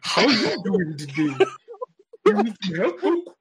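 lightly put-on Popo voice; a hint of a polite genie-like servant greeting his master; gentle servant's greeting, only lightly voiced. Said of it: "he talked like this".

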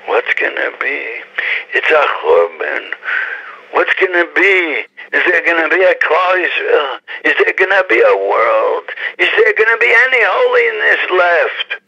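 building, rising panic; anxious despair. Retold or imitated. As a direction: ask in growing dread as the world ends. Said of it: "thinking that".

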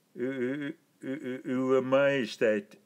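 stammering over the first word, caught off guard. A narrator's reading. Weisberg stammers before the emperor, flustered. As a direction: stumble nervously over every u. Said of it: "stamelde Weisberg".

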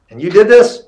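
can't believe the helper did this; incredulous. Retold or imitated. Questioning the helper.

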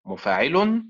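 مفاعل said with a rising tune as the first of four readings; first stress pattern. Shown as a demonstration. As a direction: mark the beat on one syllable of مفاعل. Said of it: "وتنطق بأربع طرق، هكذا".

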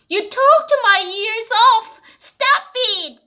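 a mild whiny complaint, slow; annoyed complaint. Pretend. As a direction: complain you've heard enough. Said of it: "비슷한 말 이렇게 생각하면요". (잔소리에 지친 듯 살짝 짜증)

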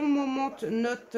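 English words in a French accent. Real, not acted. Vlogger reading out a collection name, French-accented English. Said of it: "super accent anglais, hein, comme d'habitude".

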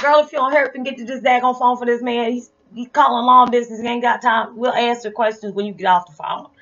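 loud, high, impatient mother; scolding mom. Retold or imitated. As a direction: hurry the kid along, no arguing. Mom scolds dawdling child to phone.

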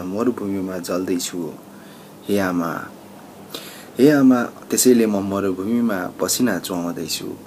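declaimed verse, pausing between phrases; poem recitation. Acted. Migrant worker's lament for home and lost love, recited as a poem. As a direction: launch each line strongly and let it fall away.

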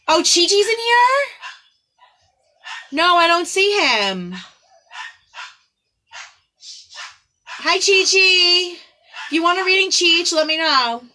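high, loud delighted hello; light up when a friend arrives; excited greeting. Real, not acted. Greeting a friend who joined the reading, high and thrilled. Spots a friend joining the stream.

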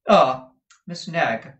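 loud, high, drawn-out greeting; grand employer greeting. Acted. Madame hailing her forewoman, high loud slow greeting. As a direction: hail her loftily, falling from high.

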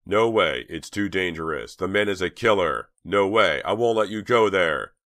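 desperate shouted refusal; screaming. A narrator's reading. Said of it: "Chuck screamed".

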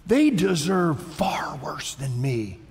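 slow, hushed aggrieved protest; aggrieved complaint. Acted. Sufferer comparing himself to the wicked, slow aggrieved complaint. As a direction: drag it out, voice thinning away.

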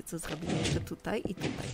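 usual speaking voice

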